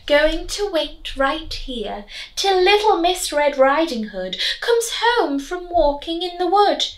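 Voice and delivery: sly leering wolf voice; frightful leer. Acted. Wolf plotting to wait for Red Riding Hood, leering. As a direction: leer as you plot. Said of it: "with a frightful leer".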